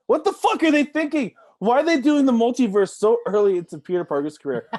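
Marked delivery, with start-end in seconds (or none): 0.1-3.6 higher, louder repeat with more heat; incredulous rant rising in pitch; exasperated rant. Real, not acted. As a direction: push the second one up in disbelief. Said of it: "repeated with more heat".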